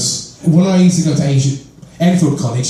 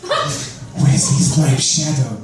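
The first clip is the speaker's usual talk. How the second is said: slow, laughing echo of the nickname; laughing repeat; much slower than usual. Real, not acted. Repeating the school nickname to the crowd, laughing. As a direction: savour the name through a laugh. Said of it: "He called me Wesley Snipes' Shadow".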